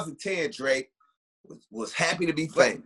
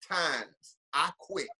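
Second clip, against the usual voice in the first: mock surrender; 4 dB quieter, slower than usual. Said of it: "end up like a rapper and say".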